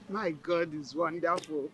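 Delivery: ordinary talk, nothing marked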